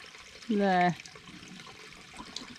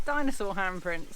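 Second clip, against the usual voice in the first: mock discoverer; 3 semitones higher, 3 dB quieter than usual.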